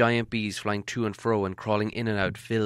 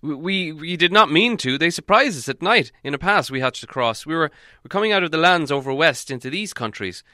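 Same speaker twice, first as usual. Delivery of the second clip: stammering, raised wizard voice; flustered wizard; 5 semitones higher, 6 dB louder than usual. A narrator's reading. Wizard explaining goblin trouble, flustered and halting. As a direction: explain haltingly, a bit defensive.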